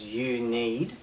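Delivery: "you need" set apart deliberately; deliberate stress on "you need"; linked emphasized words. Shown as a demonstration. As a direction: link "you" to "need" with weight. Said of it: "I'm linking the words".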